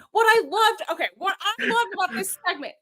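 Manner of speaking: ordinary talk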